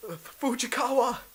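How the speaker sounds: high, loud battle yell, shouted out. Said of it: "they yell out".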